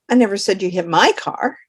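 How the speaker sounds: my lifted and marked; the stress falls on my. Shown as a demonstration. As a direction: hit the word my. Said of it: "For example".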